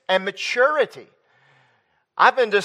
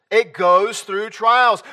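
repeated a bit quicker, still slow; much slower than usual. Real, not acted. Preacher repeating the point about trials, slowly. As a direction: echo it slower than speech.

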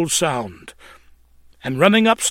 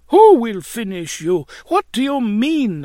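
lightly voiced landlady, raised pitch; questioning landlady; 7 semitones higher, 4 dB louder than usual. A narrator's reading. Landlady questioning her distraught lodger, lightly acted alarm. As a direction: ask it with mild, high-pitched alarm. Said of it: "asked Missus Cartwright".

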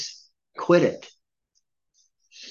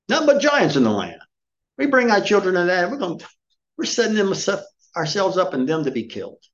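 complaining spies; 8 semitones higher than usual. Retold or imitated. Spies griping about the giants, high panicky whine.

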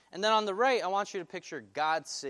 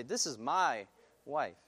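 "my" leaned on, slow and deliberate; tender emphasis on "my"; stress on my; slower than usual. Shown as a demonstration. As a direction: press the word "my" in "This is my wife". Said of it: "Some of us might emphasize this word "my".

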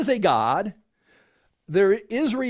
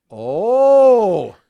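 mock awestruck oh; 2 semitones higher, 11 dB louder than usual. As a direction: swoon over a revelation. Enlightened convert gushing over Yeshua.

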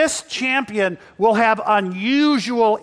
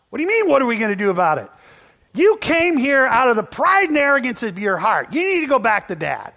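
fast, louder irritated reprimand; scolding big brother; 4 semitones higher, 5 dB louder, faster than usual. Retold or imitated. Older brother scolding David for his pride. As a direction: snap back at a pesky little brother.

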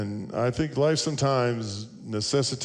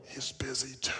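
put-on soft whispered child voice; child's whisper; 2 semitones higher, 12 dB quieter than usual. Boy says his mother is busy, whispering. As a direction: keep it hushed like a hiding kid. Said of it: "Still whispering".

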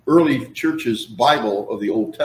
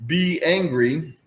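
slow emphatic; 3 semitones higher, much slower than usual. Shown as a demonstration. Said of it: "the second one is also a command".

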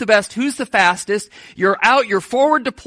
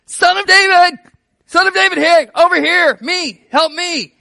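much higher and louder desperate shout; 10 semitones higher, 7 dB louder than usual. Retold or imitated. Blind beggar shouting over the disciples to Jesus, desperate yell. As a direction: yell over the crowd to be heard.

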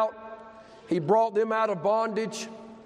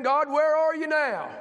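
higher-pitched mock grumble at God; complaining; 6 semitones higher than usual. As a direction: imitate someone demanding answers from above. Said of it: "You start complaining".

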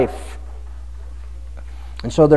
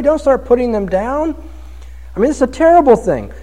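higher, pleading plea to stop; mock pleading with John; 6 semitones higher than usual. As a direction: beg John to tone it down, half joking. Preacher pleads with John mockingly.

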